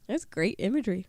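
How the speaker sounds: stiff robot-like speaking; careful, unnatural robot voice. Real, not acted. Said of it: "You sound like a robot".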